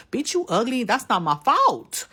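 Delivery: high, taunting jab; mocking insult. Real, not acted. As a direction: toss the insult with scorn.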